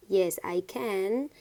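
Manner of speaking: said slowly and clearly; slow classroom model; slow careful model. Shown as a demonstration. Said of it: "very important to pronunciate properly".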